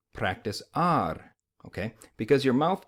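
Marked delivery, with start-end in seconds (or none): 0.1-1.3 practice R said slowly with a tapped R; flapped R. Shown as a demonstration. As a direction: practice R, tongue flapping both R's. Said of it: "you're gonna say practice R".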